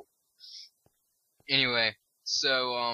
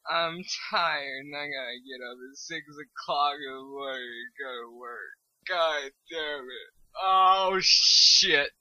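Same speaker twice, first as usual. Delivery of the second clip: fake cry. Tired worker dreading a six o'clock start, fake crying. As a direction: put on an exaggerated fake sob. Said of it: "like a fake sound cry".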